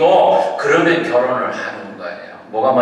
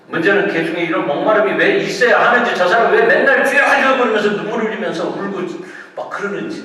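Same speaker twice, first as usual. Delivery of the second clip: loud, high imitation of a baffled onlooker; mock their incomprehension, pitched up and forceful; imitated baffled complaint; 8 semitones higher, 8 dB louder than usual. Preacher voicing people puzzled by weeping believers, baffled complaint.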